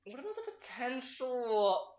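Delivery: soft, slow, hesitant aide; timid objection. Acted. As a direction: nervously raise a concern.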